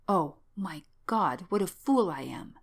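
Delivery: drawn-out, understated anguish; mounting self-reproach. Acted. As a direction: lament your own folly, stretching the exclamation. Self-reproach rising toward hysterics.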